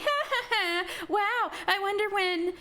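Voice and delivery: high, taunting witch voice with a laugh; imitating a gloating witch; mocking witch. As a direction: sneer at her for waiting. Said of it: "she was, you know, being herself".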